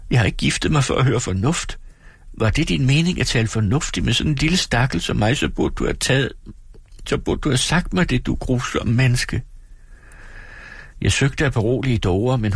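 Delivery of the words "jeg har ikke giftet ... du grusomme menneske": høj, fortvivlet klage. Acted. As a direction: jamr dig over fornuften. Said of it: "udbrød Dora fortvivlet". (Dora klager fortvivlet til sin mand)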